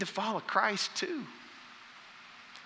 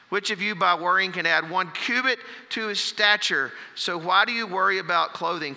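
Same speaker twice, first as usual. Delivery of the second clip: scripture reading. Acted. Pastor reading Jesus' words to the congregation, fervent preaching read. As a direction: preach the passage with rising force. Reads Matthew 6 aloud.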